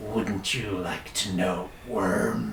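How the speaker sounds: very deep, low, thick gravelly voice. Showing how a voice speaks right in your ear, in a thick, gravelly voice. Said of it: "this like thick, gravelly voice".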